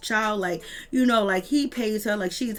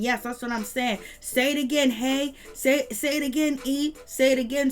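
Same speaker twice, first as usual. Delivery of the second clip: imitating a hype-man yell, a bit higher; egging her on, half-yelled and higher; mock screaming; 4 semitones higher than usual. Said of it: "He started screaming".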